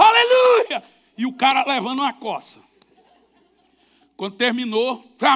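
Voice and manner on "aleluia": loud high cry of praise; crowd's shout. Retold or imitated. Congregation shouting back to the preacher, loud. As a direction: belt out the hallelujah.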